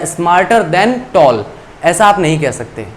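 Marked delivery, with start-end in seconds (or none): 0.0-1.4 slow wrong example. Shown as a demonstration. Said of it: "या".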